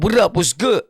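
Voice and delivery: slightly punched-up street greeting; forced slang. Shown as a demonstration. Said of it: "talk like that with slang".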